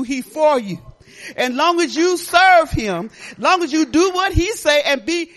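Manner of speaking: loud, rising preacher's call; preaching. Acted. Pastor exhorting the congregation, loud and fervent. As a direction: preach it out to the church.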